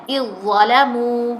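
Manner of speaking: اِظْظَلَمُوا said slowly with the dal fully merged into a doubled zwa. Shown as a demonstration. Teacher showing students the merged اِظْظَلَمُوا. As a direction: stretch اِظْظَلَمُوا, the dal vanishing into the held zwa. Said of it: "وا پڑھنا ہے".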